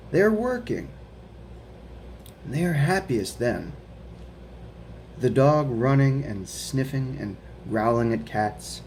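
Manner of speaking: put-on slow, careful read-aloud for children; reading a picture book aloud. A narrator's reading. Teacher reading The Paperboy to her students, slow storytime voice. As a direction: read it slowly to a class of kids.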